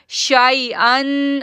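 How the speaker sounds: शाइअन chanted slowly and softly, शा not stretched; gentle tajweed chant; soft recitation. Shown as a demonstration. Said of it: "इसको नरमी के साथ पढ़ना है".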